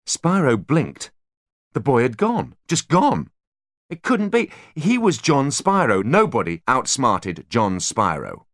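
high, loud, slowed disbelief; rising panic. A narrator's reading. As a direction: narrate his unraveling mind. Narration of Spyro losing mind.

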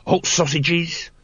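high, drawn-out whining cry of a sausage seller; whining street vendor. A narrator's reading. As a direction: hawk your wares in a nasal whine. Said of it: "whined a voice behind them".

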